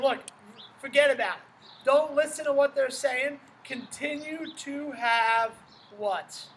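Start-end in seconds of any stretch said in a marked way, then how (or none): 0.0-5.5 louder, pressing reassurance; Jesus urging Jairus to keep faith, emphatic; urgent insistence. Retold or imitated. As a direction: urge him not to listen. Jesus urging the synagogue leader.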